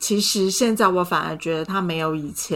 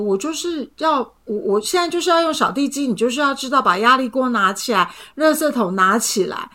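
irritated demand; 5 semitones higher than usual. Retold or imitated. Retold argument, her own demands.

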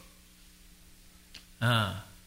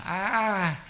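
gentle elder; 8 semitones higher than usual. Retold or imitated. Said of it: "忏公就如清凉地跟你讲".

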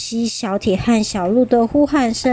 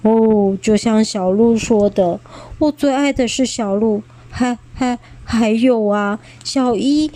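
低沉的声音. Acted. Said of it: "霸王龙低沉的声音".

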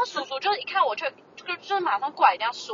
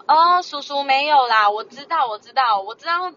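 firm work mode. Retold or imitated. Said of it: "面对工作的那种讲话模式".

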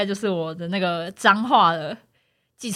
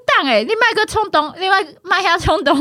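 urgent pleading; 7 semitones higher than usual. Retold or imitated. Begs driver to calm down.

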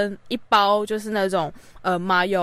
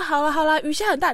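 feigned grievance; 6 semitones higher than usual. Retold or imitated. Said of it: "因为装委屈".

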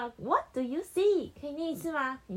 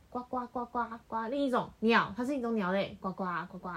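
quacking like a duck; 3 semitones lower, faster than usual. Shown as a demonstration.

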